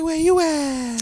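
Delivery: high, slow put-on feminine voice; mock feminine voice. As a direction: coo it flirtily. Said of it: "This is my feminine voice".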